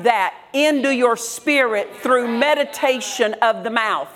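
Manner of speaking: rising, insistent preacher's cadence; preaching. Acted. Pastor preaching to the congregation, fervent and rhythmic. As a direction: drive each phrase home to the congregation.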